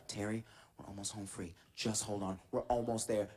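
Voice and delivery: low, hushed mock reassurance; soothing the brother. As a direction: talk a panicking kid down, keeping it low.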